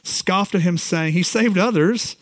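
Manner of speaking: hushed solemn scripture reading. Acted. Reads the crucifixion passage aloud.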